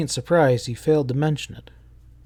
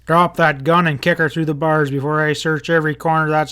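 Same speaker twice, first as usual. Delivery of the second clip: commanding threat; 3 semitones higher, 5 dB louder than usual. Acted. Armed deputy threatens gunman.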